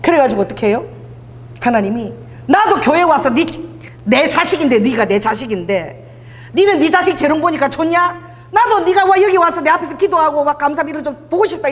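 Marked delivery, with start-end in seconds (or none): 2.5-11.7 raised, insistent parental appeal; God's fond pleading. Acted. Preacher voices God wanting His child in church, lightly pleading.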